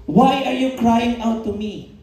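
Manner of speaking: slow, solemn voice of the Lord; voice of God. Acted. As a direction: let God ask it gently and slowly. The Lord speaking to Moses. (mabagal at taimtim na tinig ng Panginoon)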